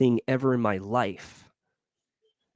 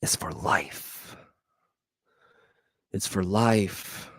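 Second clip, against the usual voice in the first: hushed whisper for emphasis; whispered aside; 3 semitones lower, 4 dB quieter, much slower than usual. Real, not acted. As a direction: drop to a whisper on it. Emphatic repeated life motto.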